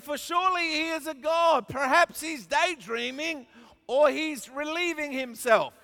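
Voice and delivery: high mock-earnest taunt; lifted, scoffing speculation. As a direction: tease them with pretend concern. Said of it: "Elijah began mocking them".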